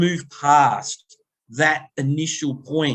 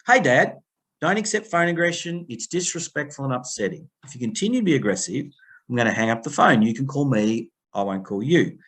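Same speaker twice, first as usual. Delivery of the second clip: calm, matter-of-fact. Shown as a demonstration. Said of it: "I say it in that tone of voice. I say it as if it's another Tuesday".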